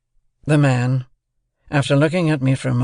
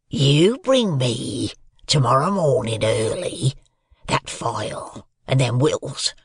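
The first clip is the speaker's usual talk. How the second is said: fearful threat. A narrator's reading. Convict holds the boy upright and gives fearful terms, menacing. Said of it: "went on in these fearful terms".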